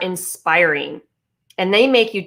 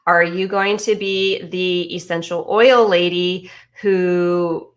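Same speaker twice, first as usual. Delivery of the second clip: hushed aside; whisper. Pretend. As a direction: whisper it like gossip. Teasing aside about the oil lady.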